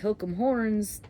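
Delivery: slow, lightly put-on Texas accent. Shown as a demonstration. Out in Texas cheering the team, Texas accent. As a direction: stretch it into a Texas drawl. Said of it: "you're out in Texas".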